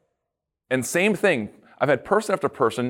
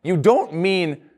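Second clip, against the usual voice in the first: questioning; 2 semitones higher, slower than usual. Retold or imitated. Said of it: "they say it with a question".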